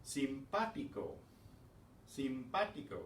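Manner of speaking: Simpático stressed on PA, sim-PA-ti-co; Spanish Simpático with the accent on PA; stress on accented syllable. Shown as a demonstration. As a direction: lean on the second syllable of Simpático. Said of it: "put the stress on that".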